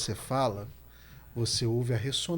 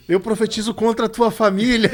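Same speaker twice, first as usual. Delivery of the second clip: hammed-up preacher, louder and higher, laughing; mock fiery preacher; 8 semitones higher, 11 dB louder than usual. Host mocks a preacher quoting a nonexistent verse, hammed-up shout. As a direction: ham up a pulpit pronouncement.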